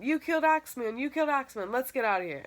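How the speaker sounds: high, excited mock yell; retold yelling. A narrator's reading. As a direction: shout it like kids fleeing in a panic. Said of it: "So we start yelling".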